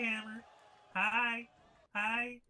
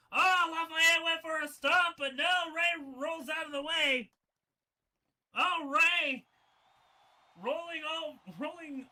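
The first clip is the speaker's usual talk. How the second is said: louder and higher commentator yell; excited shout; 5 semitones higher, 5 dB louder than usual. Real, not acted. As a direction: sell the dodge at full volume. Shouting the near-miss stomp.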